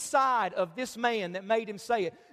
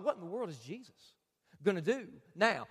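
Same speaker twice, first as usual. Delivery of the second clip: 1 hushed inner thought; 5 semitones lower, 5 dB quieter than usual. Retold or imitated. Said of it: "and thought".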